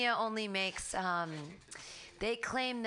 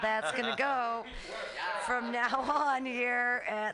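spaced-out, stoned talk. Real, not acted. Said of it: "I got really high, and now I'm really high".

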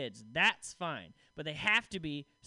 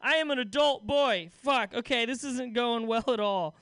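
high, loud, flustered backpedal; panicked; 6 semitones higher, 5 dB louder than usual. Retold or imitated. Comic panicking on a date, high loud flustered. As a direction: scramble like you've been caught out. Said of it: "then I just panicked".

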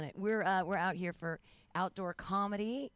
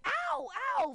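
high-pitched, louder pretend yelps; mock pain; 5 dB louder than usual. Tied-up nanny humoring the twins' game, high mock pain. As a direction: play along with hammed-up agony.

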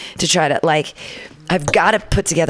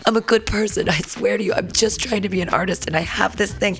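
pleading; 3 semitones higher than usual. Retold or imitated. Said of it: "I'm like".

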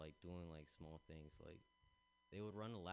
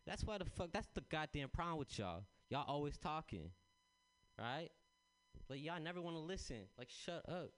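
loud, higher, barking coach rant; angry coach; 7 semitones higher, 6 dB louder than usual. Retold or imitated. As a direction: yell at the kids like a furious coach. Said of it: "the coach goes".

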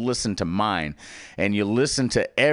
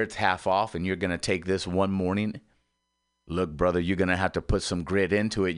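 Morgan's advice; 5 semitones lower than usual. Retold or imitated. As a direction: talk him down low and easy. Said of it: "Mister Morgan there, he says".

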